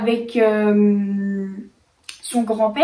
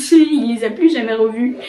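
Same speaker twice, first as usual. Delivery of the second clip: laughing. Real, not acted. Telling viewers the lost-stuff punchline, laughing. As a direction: chuckle the words out as you repeat them.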